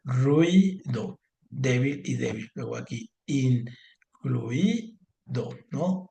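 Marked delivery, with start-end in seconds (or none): 0.0-1.2 "ruido" split as rui, pause, do; divided into syllables. Shown as a demonstration. Teacher giving another example of separation, "ruido" syllable by syllable. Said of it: "¿Cómo se separa?". 3.3-4.9 "incluido" very slowly as in, clui, do; divided into syllables. Shown as a demonstration. Teacher giving a longer example, "incluido" slowly syllable by syllable. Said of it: "¿Cómo se separa?".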